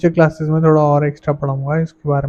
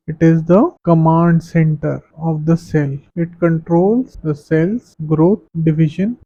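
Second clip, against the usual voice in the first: very slow, even reading of notes; slow classroom dictation; much slower than usual. Acted. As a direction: spell the definition out for students to copy. Dictates English definition.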